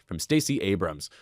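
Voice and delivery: polished, even sponsor read. Real, not acted. Co-host reading a thriller sponsor's copy to listeners, polished ad read. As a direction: read the book blurb like a promo.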